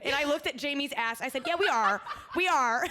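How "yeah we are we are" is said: loud retold confirmation; emphatic comeback. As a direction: throw it back at him loudly.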